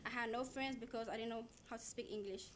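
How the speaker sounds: usual speaking voice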